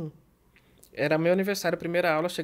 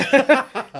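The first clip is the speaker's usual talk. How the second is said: loud, higher burst of laughter; real laughter; 6 semitones higher, 9 dB louder than usual. Real, not acted. Friends joke about the mistaken word, laughing loudly. Both crack up over the word.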